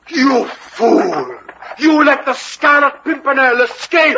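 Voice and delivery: outraged scolding, rising in pitch; angry rebuke. Acted. Captain to guard who let the Pimpernel escape, outraged. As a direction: berate him for the blunder.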